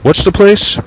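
high, distant character voice; far-off voice. Acted. Second voice in the book heard from far away, high. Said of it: "Another voice, far away".

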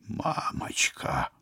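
breathless scared whisper; frightened whisper. Acted. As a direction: gasp it out in terror. Hero terrified by growing sword.

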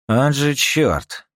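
frustrated curse. Acted. Рика досадует на неудачу.

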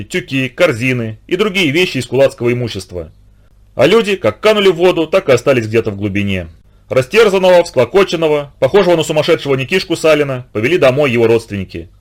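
plain reading voice

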